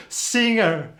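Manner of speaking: "singer" with a short laugh. Shown as a demonstration. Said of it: "how do you pronounce it".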